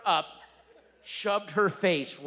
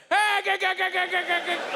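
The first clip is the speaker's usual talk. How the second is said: much higher, loud stuttering g- sounds; panicked stammer; 7 dB louder than usual. Retold or imitated. Dad drowning out his daughter's words with frantic loud stammering. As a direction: bark nonsense in a panic. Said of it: "and I go".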